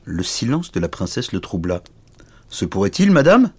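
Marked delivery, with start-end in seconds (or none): 2.5-3.5 rising, taunting threat to a lady; hammed-up villainous oaf; big stupid knight, menacing. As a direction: threaten her suitor, pitch climbing. Big knight threatens to eat suitor.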